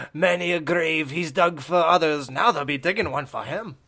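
spooky storyteller line; gravedigger voice. Retold or imitated. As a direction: deliver it like a creepy horror host. Quoting gravedigger movie line.

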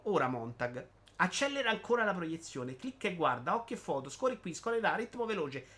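slightly lifted, emphatic reading voice; animated monologue reading. Acted. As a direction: declaim it like a public proclamation. Legge il monologo di Bitty. (lettura enfatica di un monologo)

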